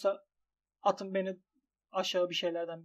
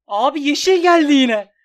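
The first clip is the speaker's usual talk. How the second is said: much louder, higher outraged wail; furious wail; 7 semitones higher, 13 dB louder than usual. Real, not acted. Gambler yelling that the betting site is playing him. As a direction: accuse the site at full volume. Green again, shouting at the site.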